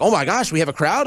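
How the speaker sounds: mock gasp of disbelief; mock amazement. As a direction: gush like a starved party seeing people. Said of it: "they're like".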